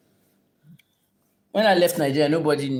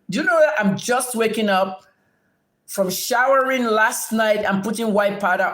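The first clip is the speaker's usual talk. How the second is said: higher-pitched, indignant rhetorical questions; indignant scolding; 4 semitones higher than usual. Real, not acted. Streamer tells off a viewer over powder remark, indignant.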